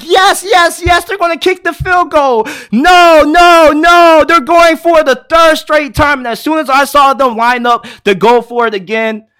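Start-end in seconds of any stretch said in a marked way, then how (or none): 0.0-2.5 high joyful yes yes; relieved cheering. Retold or imitated. Relief after offsides penalty. 2.7-6.2 loud, high exasperated protest. Real, not acted. Dismay at third attempt.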